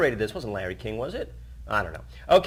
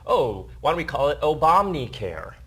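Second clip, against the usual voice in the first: mock suggestion; 2 semitones higher, 4 dB louder than usual. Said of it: "basically saying, like".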